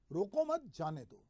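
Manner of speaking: "रोको मत जाने दो" slowly, without long pauses; phrase run together. Shown as a demonstration. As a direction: keep "रोको मत जाने दो" as one slow, falling phrase. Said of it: "अलग-अलग तरीके से इस वाक्य को कहता हूं". ("रोको मत जाने दो" धीरे, एक ही वाक्यांश में)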